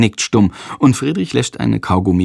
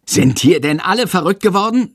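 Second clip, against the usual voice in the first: much higher, indignant teacher; outraged yelling; 10 semitones higher than usual. A narrator's reading. Teacher losing patience with the class, exclaiming angrily. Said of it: "schreit Herr Lersikow".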